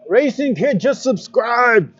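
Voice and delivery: put-on slow, high, cracked old man announcing a subscriber; old man Odin voice. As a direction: play a creaky ancient god. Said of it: "You like my old man Odin voice?".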